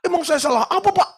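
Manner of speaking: high, affronted outburst; indignant wife. Retold or imitated. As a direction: protest with eyes bulging. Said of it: "langsung melotot matanya mau keluar". (istri tersinggung, nada tinggi)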